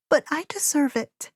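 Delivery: put-on high grieving girl, rushing; girl blaming herself, hurried; tearful young girl. A narrator's reading. Gabriella grieving.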